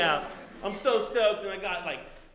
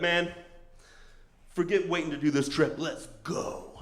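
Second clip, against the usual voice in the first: fed-up urging; 4 dB louder than usual. Retold or imitated. Heartbroken buddy urging trip.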